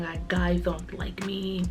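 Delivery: whispered confession; whispering. Real, not acted. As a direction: whisper it, ashamed. Insecure confession.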